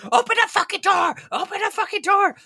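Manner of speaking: high, strained full shout; retold scream. Passenger waiting for the doors to open, screaming. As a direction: scream the demand at the top of the range. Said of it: "he's, like, screaming".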